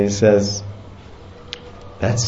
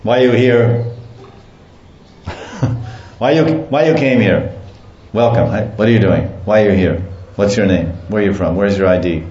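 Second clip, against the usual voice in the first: mock police interrogation; policeman; faster than usual. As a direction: grill them like a bored cop. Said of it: "starts speaking like a policeman".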